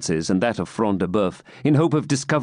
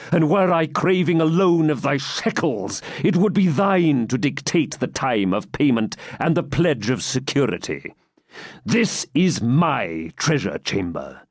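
stern knight; 5 semitones higher than usual. Acted. Baron gloating over his captive, menace. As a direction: gloat over your power.

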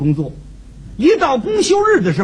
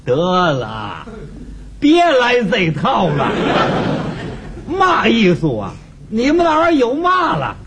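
dismissive neighbour in broad Tianjin dialect; thick Tianjin accent; 2 semitones higher than usual. Acted. Neighbour belittling the comedians' art, dismissive thick Tianjin accent. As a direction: scoff in a heavy Tianjin accent. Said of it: "说话天津口音非常的浓".

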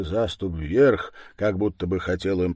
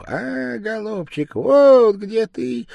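a much higher, thin squeak with "вот" stretched slow; squeaking bird beak; 12 semitones higher, 6 dB louder than usual. Acted. The bird's nose mocks grandpa in a high squeak. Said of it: "запищал птичий нос".

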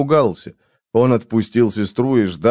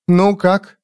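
higher-pitched, mildly impatient query; impatient question; 8 semitones higher, 3 dB louder than usual. A narrator's reading. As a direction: press for news right away. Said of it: "нетерпеливо спросила Джизбелла". (нетерпеливо, повыше голосом)

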